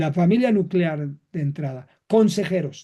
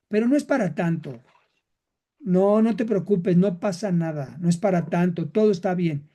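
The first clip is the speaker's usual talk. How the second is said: wrong comfort. Shown as a demonstration. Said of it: "estoy dando un consuelo equivocado".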